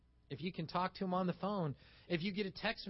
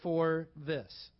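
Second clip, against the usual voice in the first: sincere apology; 3 semitones lower, slower than usual. Shown as a demonstration.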